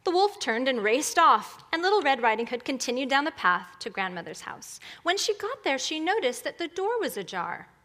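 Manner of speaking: storybook reading with lilting pitch; animated children's story narrator; fairy tale narration. Acted. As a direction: tell it like a bedtime story. Tells fairy tale to congregation.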